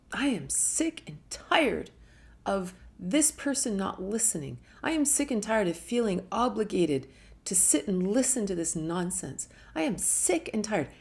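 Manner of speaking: rising, emphatic sick and tired; fed up, insistent venting; building frustration. Shown as a demonstration. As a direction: pile up each complaint harder. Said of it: "hear the language".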